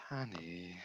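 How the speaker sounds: whispered. Retold or imitated. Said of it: "she looks at me, she goes".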